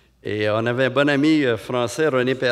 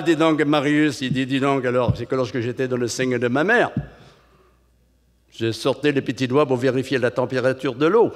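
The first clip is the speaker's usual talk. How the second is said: put-on Marseille accent. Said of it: "c'est un Marseillais qui me l'a dit".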